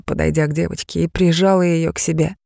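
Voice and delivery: plain reading voice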